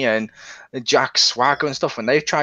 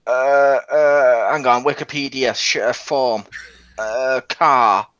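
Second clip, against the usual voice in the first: dim, halting Jim; 3 semitones lower, slower than usual. Retold or imitated. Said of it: "Jim would be like".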